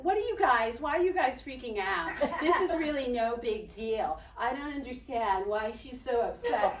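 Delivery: mock dismissive teen protest; dismissive teenager. Teenage sister brushing off the panic, mock dismissive.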